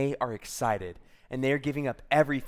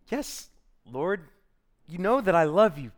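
higher, pleading affirmation; Peter insisting earnestly; 4 semitones higher, 4 dB louder than usual. Acted. Peter assuring Jesus of his love, insistent. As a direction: insist on it, rising to a louder finish. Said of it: "And Peter goes".

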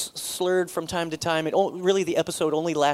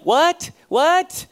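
high, loud puzzled "what?" from another room; puzzled call; 12 semitones higher, 7 dB louder than usual. Retold or imitated. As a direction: call out, confused who she's talking to. Calling out to his talking wife.

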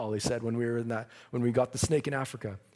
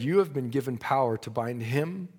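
voice from above; 3 semitones lower than usual. Retold or imitated. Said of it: "a voice came from above".

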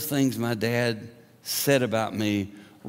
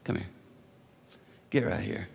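God calling; 3 semitones lower, 5 dB quieter, faster than usual. Retold or imitated. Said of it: "And God looks over and says".

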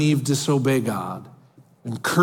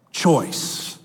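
breathy whispered last word. Acted. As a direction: let the word fall to a whisper. Dramatic final word of God quote.

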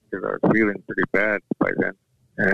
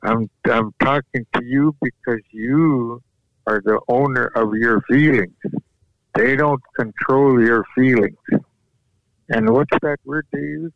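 firm grandpa; 4 semitones higher than usual. Retold or imitated. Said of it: "He said".

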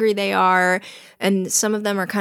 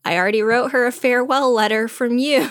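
higher and louder proud reveal; 4 semitones higher, 3 dB louder than usual. Retold or imitated. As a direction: show off the surprise, higher and louder. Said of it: "And Cyrano says".

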